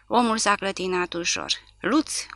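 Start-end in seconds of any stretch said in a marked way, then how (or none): 1.8-2.3 high, excited call of a name; a happy cry of recognition; joyful shout. A narrator's reading. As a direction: shout the old friend's name gladly. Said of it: "a strigat micuțul".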